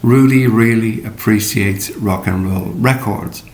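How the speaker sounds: same sentence run through at normal speed; "Rudy really appreciates" at normal pace, smooth; sped up. Shown as a demonstration. Teacher speeding up the practice sentence. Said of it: "And then speed it up".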